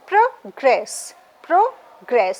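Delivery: "progress" split as pro, GRESS; weight on the second syllable of "progress", falling; stress on GRESS. Shown as a demonstration. Teacher marking verb stress for students, second syllable stressed. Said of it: "So you will mark again grace".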